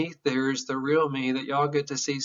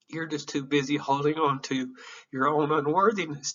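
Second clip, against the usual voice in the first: tearful self-address; quoting the line back to himself, emotional. Real, not acted. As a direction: say it to yourself, moved. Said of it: "sorry for getting so emotional".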